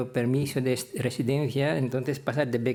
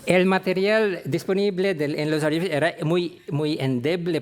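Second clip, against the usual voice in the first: laughing through the words, a bit louder and faster; 3 semitones higher, 4 dB louder than usual. Real, not acted. A professor laughing as he recalls the mix-up with his name. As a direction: chuckle it out, amused by the mix-up.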